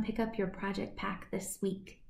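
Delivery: soft unvoiced whisper. Real, not acted. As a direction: say it in a hushed whisper. Host whispers to viewers.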